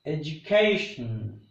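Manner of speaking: "Education" as edu-CA-tion, strong third syllable; stress on CA. Shown as a demonstration. Teacher demonstrates the I O N rule, stressing CA in Education. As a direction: land on CA in "Education", weaken the rest. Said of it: "K becomes strong".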